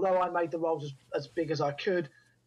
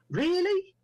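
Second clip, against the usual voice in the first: incredulous; 2 semitones higher, slower than usual. Retold or imitated. Director reacting to the actor's name, incredulous. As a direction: voice sceptical disbelief, jumping up then falling. Acts out his doubting first reaction.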